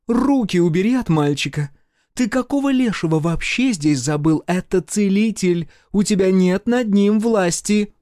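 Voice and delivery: high, loud furious woman's scold; angry scolding. A narrator's reading. Woman orders Eduard off the boy, angry shout.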